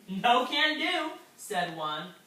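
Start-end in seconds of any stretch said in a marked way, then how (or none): 0.1-1.1 snooty refusal. Acted. Fish refuses guppy.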